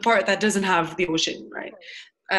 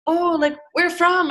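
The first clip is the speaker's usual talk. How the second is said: high, louder mock-curious question; curious stranger; 8 semitones higher, 6 dB louder, slower than usual. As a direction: imitate a nosy, eager stranger. Voicing people asking her origin.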